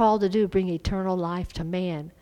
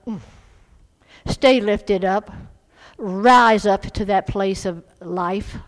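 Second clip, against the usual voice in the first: prophetic voice; 6 dB louder than usual. Retold or imitated. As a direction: declare it like a prophecy. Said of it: "in that prophetic voice".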